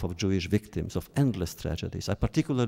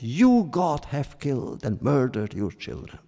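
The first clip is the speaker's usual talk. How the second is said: P=A; outspoken accusation; 3 semitones higher than usual. Retold or imitated. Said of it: "more outspoken, more direct".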